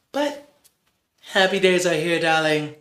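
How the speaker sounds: hammed-up sing-song glee; mock glamorous cheer to a friend; theatrical cheer. Cheery switch to the verses.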